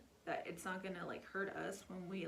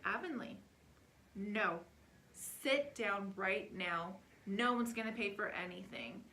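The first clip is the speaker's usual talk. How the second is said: stern dad; 4 dB louder than usual. Retold or imitated. Dad scolding daughter in public.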